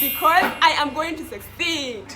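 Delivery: slow, deliberate promise; slow and sure. Shown as a demonstration. Friend leading him in a slow affirmation. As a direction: spell out each word slowly. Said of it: "Say it, you are smiling".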